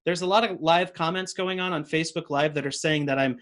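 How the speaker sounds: mock sincere praise; sarcastic tone. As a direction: say it like you don't mean it. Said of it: "talking in that sarcastic tone".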